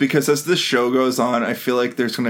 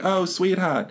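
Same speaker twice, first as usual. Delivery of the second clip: put-on New York Jewish accent; 6 semitones higher, 4 dB quieter, slower than usual. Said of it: "like, New York Jewish".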